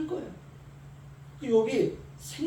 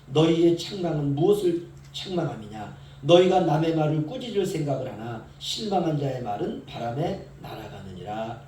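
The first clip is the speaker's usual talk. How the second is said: scripture reading; 2 semitones lower, 3 dB louder than usual. Acted. Reads Job chapter six aloud.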